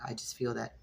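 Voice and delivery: real raspy throat, needs water. Real, not acted. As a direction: speak through a raspy, dry throat. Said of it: "with a raspy voice".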